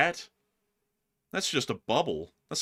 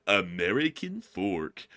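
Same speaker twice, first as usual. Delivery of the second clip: slow, drawn-out condescending announcement; condescending announcer; 4 semitones lower, slower than usual. Retold or imitated. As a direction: draw it out like a condescending train announcer. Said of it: "I say it that way".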